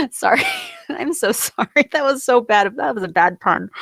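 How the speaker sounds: giggling through an apology for a bad pun; laughing apology. Real, not acted. Vlogger laughing at her own bad pun, giggly apology. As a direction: laugh it out while saying sorry.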